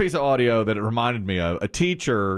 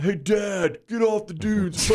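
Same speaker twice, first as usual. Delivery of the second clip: son teasing; 8 semitones higher, slower than usual. Retold or imitated. Son in the car teasing dad, higher mock yell. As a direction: needle dad with the old line. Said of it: "he'd be like".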